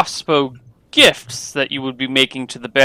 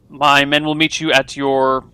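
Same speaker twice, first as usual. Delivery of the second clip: disdainful. Acted. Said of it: "with a little bit of disdain in his voice".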